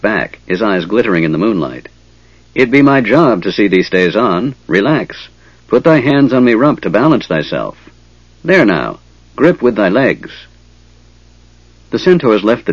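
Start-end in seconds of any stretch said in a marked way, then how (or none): 2.5-10.3 lightly voiced rustic centaur; a touch of rustic centaur talk. Centaur instructing his rider how to stay on, lightly rustic.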